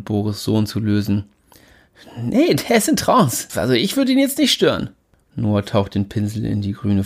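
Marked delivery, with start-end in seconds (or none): 2.2-4.9 reverent voice. Acted. Jimmy reverent.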